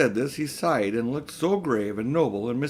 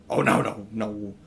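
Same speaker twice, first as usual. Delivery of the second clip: shocked; 4 semitones lower than usual. A narrator's reading. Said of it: "in a shocked voice".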